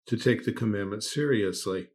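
dripping with mock surprise; sarcastic. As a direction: play it sarcastic, faux shocked. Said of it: "okay, enough of the sarcasm".

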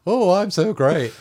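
high, loud, drawn-out mimicry of a show-off; mock his bragging, slow and high; exaggerated self-praise, pitched right up; mock boasting. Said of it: "every bloody time he mentions himself".

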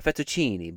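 imitating an Italian-style "fettuccine"; "fettuccine" with put-on Italian sounds; mock-Italian pronunciation. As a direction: say "fettuccine" as a would-be Italian showing off. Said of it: "they pronounce it like".

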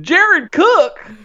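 high, swooping Southern drawl; hammy Southern talk-show host; badly faked Southern accent; bad Doctor Phil. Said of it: "bad Doctor Phil impersonation".

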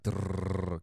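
rolled "drrr" for the heart; imitated heart noise. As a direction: trill it like a sinking heart. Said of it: "I just felt my heart".

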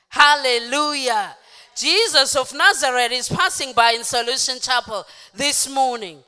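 loud, declaring sermon voice; full-force preaching. Real, not acted. Preacher announcing Jesus to the congregation, full-force preaching. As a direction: proclaim it loudly to the church.

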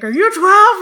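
put-on high, loud croaky old man; raspy old man voice. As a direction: demand it like a grumpy old man. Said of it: "raspy old man voice".

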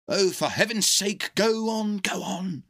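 doctor impatiently urging the dog to get to the point; impatient cry. A narrator's reading. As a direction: hurry the storyteller along, exasperated. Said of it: "cried the doctor".

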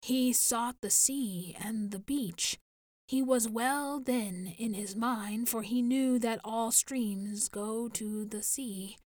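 slow and grave; measured, mournful elder. Acted. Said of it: "said Alwa gravely".

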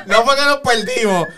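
a crack slips into the voice. Real, not acted. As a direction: voice cracks on a high note. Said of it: "me salió un gallo". (voz que se quiebra)

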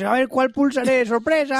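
high, drawn-out playful suspense; hammed-up high "surprise" voice; mock game player. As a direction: play a guessing game, slow build to a surprise. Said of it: "es como un juego, dices".

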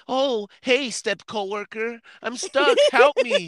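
high, whiny imitation of a friend begging for help; mock helpless plea. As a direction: squeak it out like a damsel in distress. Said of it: "You're like".

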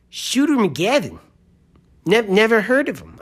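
imitated gambler in a rough Boston-like accent; put-on accent, somewhere near Boston; not-quite-Boston accent. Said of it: "It's not quite Boston".

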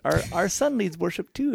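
put-on gently proud elderly parent, slowed down; old person voice. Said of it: "I'm putting on the old person voice".

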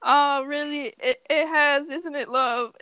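mock British accent. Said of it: "It's like".

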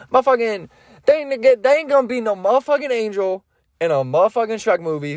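hammed-up indignation; mock indignant rant. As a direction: rant as if personally offended. Mock rant about no angels.

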